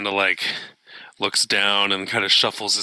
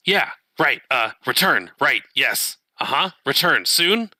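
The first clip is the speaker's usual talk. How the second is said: put-on old speech synthesizer; 3 semitones higher than usual. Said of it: "his vocoder".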